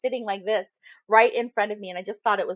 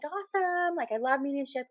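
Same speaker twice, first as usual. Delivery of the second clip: retold happy reaction, pitched up; pleased; 5 semitones higher than usual. Medium recalls seeing her bookings, pleased.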